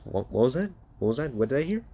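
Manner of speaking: questioning as if misheard; mock disbelief. Son taunting his father over an apology, mock disbelief. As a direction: act like you can't believe your ears.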